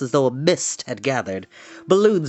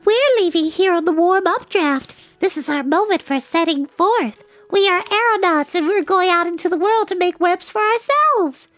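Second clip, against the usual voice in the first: very high, tiny creature voice; little spider. A narrator's reading. Baby spider explaining its departure to Wilbur, tiny high voice. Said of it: "one little spider".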